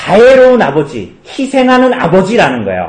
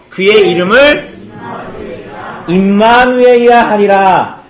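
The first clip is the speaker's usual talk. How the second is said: slow, solemn Bible reading; scripture reading; 2 semitones lower than usual. Acted. Pastor reads Isaiah aloud to the children, slow and solemn. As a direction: read the prophecy slowly and deliberately.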